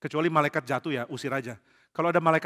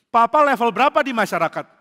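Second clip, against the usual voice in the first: put-on higher, louder kid voice; child asking; 7 semitones higher, 10 dB louder than usual. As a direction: play a nosy little kid. Anak kecil bertanya ke papa. (anak kecil bertanya, suara tinggi)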